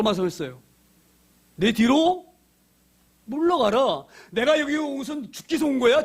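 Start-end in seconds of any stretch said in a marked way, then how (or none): 1.6-6.0 higher, insistent preaching cry; forceful rebuke. Acted. Jesus sending Peter behind him, forceful and raised. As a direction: order him back with force.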